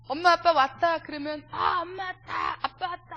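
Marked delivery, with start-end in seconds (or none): 1.5-3.2 put-on glad child greeting. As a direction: greet mom and dad like a delighted little kid. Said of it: "하고 반갑게 맞이해요". (반가워하는 아이 흉내)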